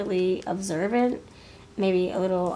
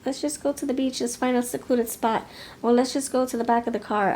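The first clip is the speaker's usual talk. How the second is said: high, loud, stammering objection; flustered protest; 5 semitones higher, 3 dB louder than usual. Retold or imitated. Listener balking at the hotel key idea, high flustered stammer. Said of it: "And you're like".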